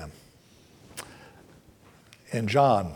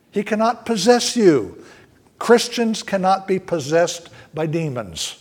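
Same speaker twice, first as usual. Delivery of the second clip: higher-pitched, firm declaration; clear and emphatic; 3 semitones higher than usual. Real, not acted. Preacher assuring Christians about demons, clear and emphatic. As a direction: state it clearly, with conviction. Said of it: "I'll say that clearly".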